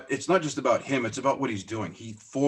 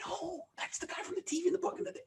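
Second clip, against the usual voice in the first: starstruck gush; 7 dB quieter than usual. Retold or imitated. Fan gushing about Stoner.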